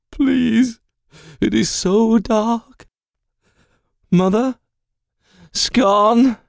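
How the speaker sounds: high, pleading demon calling out; high voice building to a shout; desperate demon. Acted. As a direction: cry out into the dark. Banished Skarl cries out in void.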